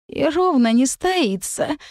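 a wobbly little fairy complaining; pixie. Acted. Tipsy fairy adds.

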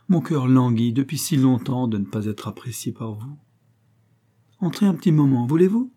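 gushing widow. Acted. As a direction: pour on the sticky sweetness, half-hearted. The widow gushes to Mrs Peters. (veuve mielleuse et envahissante, voix légèrement plus haute)

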